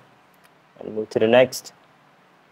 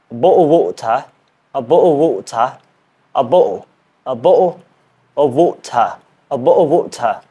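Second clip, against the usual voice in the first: drilled British "bottle of water", open final vowel; British accent attempt. Shown as a demonstration. Learner practising number two, British accent attempt. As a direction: practise a non-native British accent, phrase by phrase. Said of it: "I am learning British accent".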